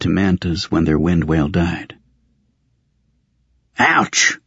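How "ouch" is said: short, high-pitched "ouch"; yelp of pain. A narrator's reading. Raven yelling as he gets stepped on, high yelp. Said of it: "Raven yelled".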